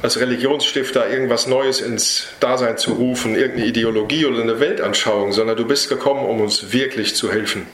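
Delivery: earnest spoken prayer to Jesus. Real, not acted. Preacher praying over the congregation at the end, earnest prayer. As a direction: pray it humbly and sincerely, addressing the Lord. Closing prayer after the sermon.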